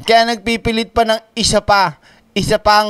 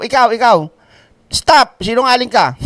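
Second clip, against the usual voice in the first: mock pointing call. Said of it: "Parang ginagaya mo".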